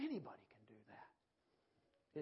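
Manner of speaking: slow, deliberate repeat; slow preaching emphasis. Acted. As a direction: let it sink in slowly.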